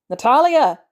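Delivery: high, loud call through a door; shouted. A narrator's reading. Barnes pounding on Natalia's door, shouting. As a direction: shout the name to be heard inside. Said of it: "he shouts".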